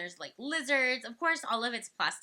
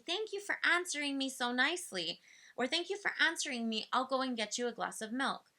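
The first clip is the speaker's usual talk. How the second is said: put-on praising the child; 2 semitones higher than usual. Shown as a demonstration. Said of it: "then I would say".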